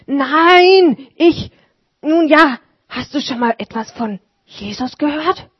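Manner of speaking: high, faltering start; lightly voiced old man, unsure; hesitant Martin. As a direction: stumble for words then ask.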